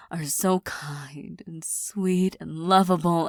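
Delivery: slow, tender whisper. Acted.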